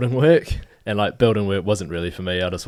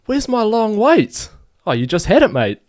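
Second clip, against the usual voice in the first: mock shopkeeper; 12 semitones higher, 8 dB louder than usual. Hardware bloke revealing the prank to Dan, high voice breaking into laughter. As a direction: deliver the punchline with a chuckle. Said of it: "Sixty minutes later".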